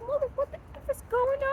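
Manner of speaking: shrill high yell at the dog; screaming at the dog. Retold or imitated. Mother yelling at the dog in the night, loud high scream. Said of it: "Screaming at the top of my lungs".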